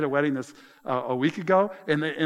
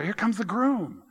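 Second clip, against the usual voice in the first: higher and slower, like a herald; a light herald's announcement, higher and slow; announcing the groom; 5 semitones higher than usual. Shown as a demonstration. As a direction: call it out as the little sign boy would.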